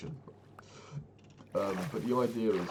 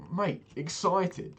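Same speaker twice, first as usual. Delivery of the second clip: loud, high and slow, incredulous; a grown man's scoffing disbelief, belted out; exasperated outburst; 10 semitones higher, 8 dB louder than usual. Real, not acted. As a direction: raise your voice in disbelief at the very idea. Exasperated rant about the salesman.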